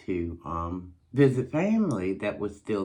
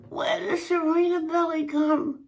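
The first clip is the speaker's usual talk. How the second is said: puzzled. Retold or imitated. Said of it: "I'm like".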